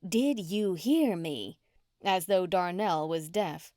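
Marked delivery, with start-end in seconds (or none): 0.1-1.6 slow, word by word through gritted teeth; wife repeating herself to her husband, slow and gritted. Acted. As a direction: grind each word out slowly. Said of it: "her white teeth gritted".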